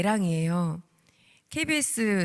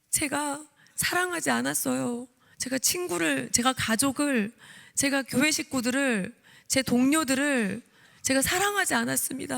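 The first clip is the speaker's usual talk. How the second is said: tearful confession; 5 semitones higher than usual. Retold or imitated. Confessing to God in the chapel, tearfully. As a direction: confess each line as if breaking down. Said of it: "울면서 기도가 나왔어요".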